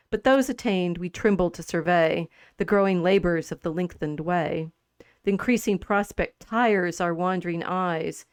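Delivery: measured, slightly slowed poetry reading; lightly performed reading of classic verse; poem recitation. Acted. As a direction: read the verses out with care. Reads Pope's poem aloud.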